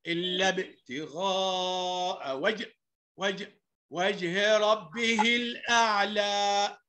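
slow tajweed chant; Quran recitation. Acted. Teacher modelling verses for the class, slow recitation. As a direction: draw out long vowels in a measured chant.

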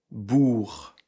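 Bourg said buʀ with silent g; model word. Shown as a demonstration. Teacher modelling Bourg for students. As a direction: Bourg with no final g sound. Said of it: "Regardez ma bouche".

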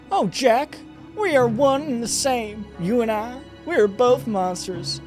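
high, theatrical falsetto woman; seductive villainess. Acted. Succubus telling Jack they are both monsters, high villainess voice. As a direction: lecture him in a high, hammed-up female voice.

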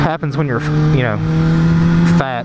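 heavy breathing while talking. Real, not acted. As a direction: talk between heavy breaths. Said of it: "sounds like I'm breathing heavy".

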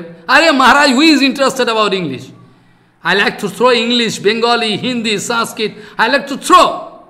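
scolding outburst. Real, not acted. Preacher tells Maharaj English doesn't matter, heated and loud.

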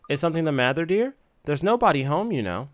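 lightly voiced nosy neighbour; chatty old woman, a hint of gossip; gossipy old lady.

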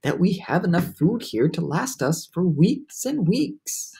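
slow, high, careful explaining; drawn-out, reasoning boy; patient. A narrator's reading. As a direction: explain patiently, taking your time. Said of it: "he said patiently".

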